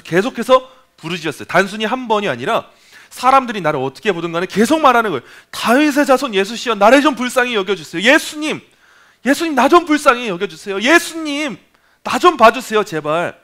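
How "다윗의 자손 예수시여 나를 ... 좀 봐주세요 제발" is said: raised, pleading cry to Jesus; a blind beggar calling out for mercy. Retold or imitated. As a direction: beg desperately, voice lifted high. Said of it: "그렇게 부르짖었는지".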